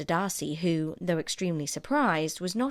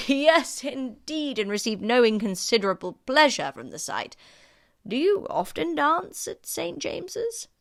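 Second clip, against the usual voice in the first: put-on higher, louder fawning old gentleman; a higher, brighter-pitched courtier voice; courtly Sir William; 7 semitones higher, 5 dB louder than usual. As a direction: play the eager-to-please host.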